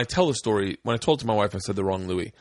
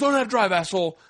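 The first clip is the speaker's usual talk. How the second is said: higher, irritated jab; mock-irritated, raised pitch; retold driver's insult; 8 semitones higher than usual. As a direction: act out a rude driver telling someone off. Voices the rude driver's insult.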